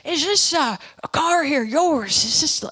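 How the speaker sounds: put-on trying a South African accent that slips toward Irish; South African accent attempt that drifts Irish. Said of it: "oh, no, that sounds like a leprechaun".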